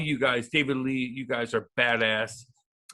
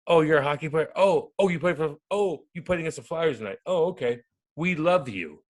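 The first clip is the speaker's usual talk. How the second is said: hammed-up excited fan voice; gushing fan; 3 semitones higher than usual. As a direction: gush like a starstruck fan. Fans gushing over hockey player.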